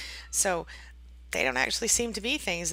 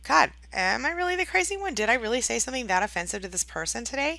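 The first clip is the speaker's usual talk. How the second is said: higher-pitched, acted worried questioning; wondering self-doubt; 4 semitones higher than usual. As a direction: question yourself as if doubting your own sanity. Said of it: "and you wonder".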